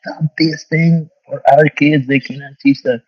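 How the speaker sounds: high, drawn-out mock yell at no extra volume; mock shouting. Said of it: "shouting on top of her lungs".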